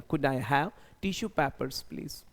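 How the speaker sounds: slow, even, rising on please; slow polite request. Shown as a demonstration. Asking the waiter for tissue papers, slow and polite. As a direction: spell out the polite ask for learners. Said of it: "तो ऐसा बोलूँगा".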